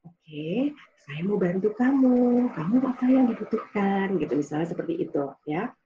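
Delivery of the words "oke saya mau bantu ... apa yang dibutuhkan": low, gentle tone. Shown as a demonstration. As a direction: lower your voice and offer help kindly. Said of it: "intonasi yang rendah gitu ya". (nada rendah yang lembut dan menenangkan)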